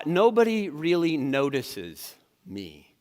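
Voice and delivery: slow, self-pitying; drawn out and glum; mopey, slow. Shown as a demonstration. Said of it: "distortions sound more like this".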